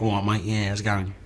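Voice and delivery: casual London greeting; lightly done Cockney hello; mock British bloke. Shown as a demonstration. Actor demoing a British greeting, soft London accent. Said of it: "being very British".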